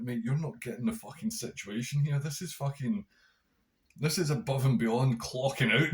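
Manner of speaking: worked-up inner rant. Retold or imitated. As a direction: blow up at him in your head, rising. Inner rant at corporate coworker.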